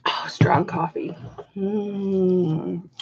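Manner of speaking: whispered reaction. Real, not acted. Streamer reacting to her coffee, whispered. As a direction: whisper it after a strong sip.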